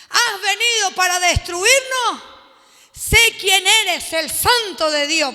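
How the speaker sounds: loud, slow demon voice; demon pleading loudly. Acted. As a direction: drag it out like a tormented spirit. Demon addresses Jesus.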